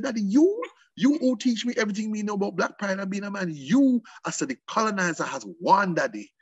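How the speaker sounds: high, pleading protest to a father; impassioned retort. Retold or imitated. Passionate retort to father retold.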